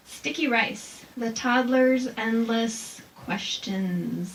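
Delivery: slow, drawn-out haiku reading; poem reading. Shown as a demonstration. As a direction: linger on each word of the poem. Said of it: "here's another one".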